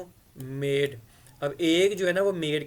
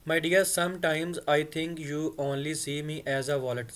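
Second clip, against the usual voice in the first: slow model reading; much slower than usual. Shown as a demonstration. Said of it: "Sometimes यानी बाज़ औक़ात".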